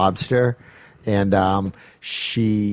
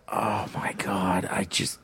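whispered; 2 semitones lower, 8 dB quieter, slower than usual. Retold or imitated. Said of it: "and I was just like".

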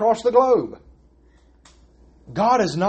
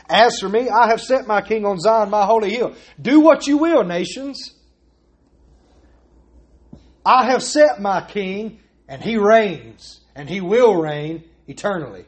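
declaring in wrath; 2 semitones higher than usual. Acted. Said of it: "speak to them in his wrath".

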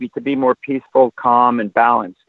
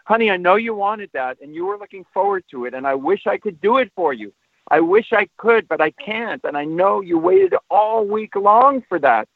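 put-on heartfelt sympathy for an upset teenager; emotional empathy; 4 semitones higher than usual. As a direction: acknowledge their letdown with gentle emphasis and feeling. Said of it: "the emotion I'm putting into that".

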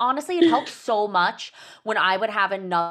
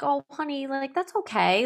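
higher-pitched, soothing mom voice; reassuring mom; 6 semitones higher than usual. Retold or imitated. Mother comforting daughter after a hard school day, reassuring. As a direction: gently reassure a little one.

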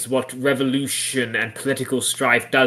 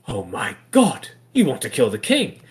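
mock horror. Father discovers plot to kill king, mock horror. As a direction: draw out the horrified discovery. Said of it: "feels like a sitcom".

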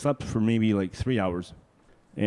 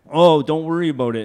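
put-on higher, louder, dismissive old driver; a higher-voiced, offhand old Al; breezy old man; 5 semitones higher, 8 dB louder than usual. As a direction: wave off the worry like a cocky old man. Old driver Al brushing off worry.

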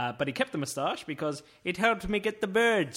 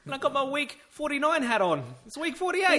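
high, loud airy voice of a tycoon; high posh rich man; 11 semitones higher, 5 dB louder than usual. Pretend. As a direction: breeze in late in a high, loud voice. S0 joins the Con voice.

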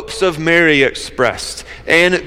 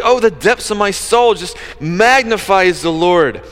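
joyful paraphrase; 3 semitones higher than usual. Retold or imitated. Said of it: "she's like".

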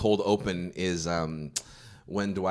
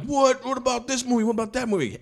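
high-pitched imitated questioning; hammed-up astonished fans; mock disbelief; 13 semitones higher than usual. Mimics people's disbelieving questions.

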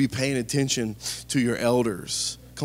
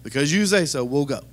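tired; 3 semitones lower than usual. Acted. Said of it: "fatigue in his voice here".

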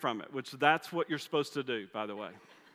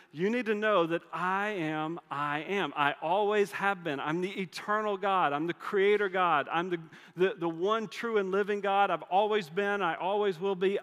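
louder, raised proclamation; bold declaration; 4 semitones higher, 4 dB louder than usual. Retold or imitated. God declaring his eternal name to Moses, louder and proud. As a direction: proclaim it like thunder from the pulpit.

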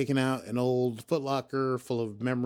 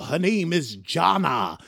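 acted Rios; 5 semitones higher, 8 dB louder, slower than usual. Acting out Rios in a scene.

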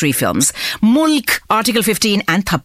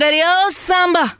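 Gabbar Singh; much faster than usual. Acted. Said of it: "So he came out of the cinema and he said".

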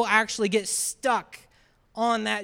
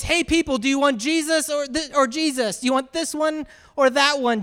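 lightly acted call to the crowd, pitched up; addressing a crowd; 4 semitones higher than usual. Man offering the people a choice between prisoners, calling out.

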